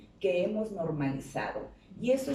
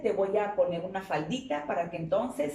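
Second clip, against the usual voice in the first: mocking parent; 4 dB louder than usual. Mocking parent taunting son.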